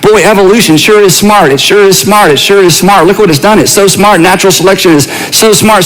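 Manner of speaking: wry mock praise of evolution; tongue in cheek. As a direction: say it with a knowing, ironic smile. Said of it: "tongue in cheek".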